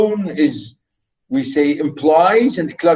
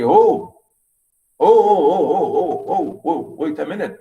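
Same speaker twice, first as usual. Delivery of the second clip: offended listener; 2 semitones higher than usual. Retold or imitated. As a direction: act out someone who took the joke badly. Listener offended, taking joke seriously.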